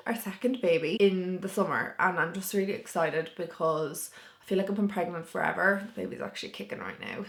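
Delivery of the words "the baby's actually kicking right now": breathless and airy; short of breath mid-sentence. Real, not acted. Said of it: "I'm so out of breath".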